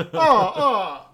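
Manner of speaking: high, loud hammed-up sobbing oh; mock crying. Coop watching the taped-over game, hammed-up loud wailing. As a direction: wail the ohs like a blubbering man. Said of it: "doing a lot of his".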